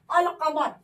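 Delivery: अल कमर with a clear l sound in अल; pronunciation demo. Shown as a demonstration. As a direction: sound the lām fully in अल कमर. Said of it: "यहाँ पे लाम का तलफ़ुज़ हम करेंगे". (अल कमर में लाम साफ़ बोलें)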